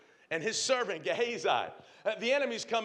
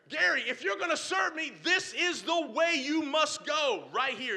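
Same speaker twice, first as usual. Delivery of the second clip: God's voice; 4 semitones higher than usual. Acted. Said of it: "give me no other option".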